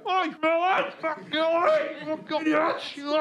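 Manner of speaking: high mock Black Country jeering; imitating yobs in car. Comic retelling lads jeering from a car window, high mocking. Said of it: "started going".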